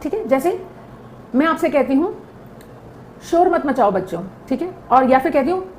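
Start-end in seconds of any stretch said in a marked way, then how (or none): 3.3-4.2 put-on gentle, even telling-off of the children; calm request. Shown as a demonstration. Teacher calmly asks the children to stop making noise. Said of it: "tone का फर्क है".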